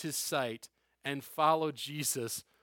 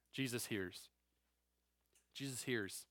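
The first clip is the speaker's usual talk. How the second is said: hushed emphasis; 7 semitones lower, 13 dB quieter than usual. Real, not acted. Preacher's key point, repeated softly.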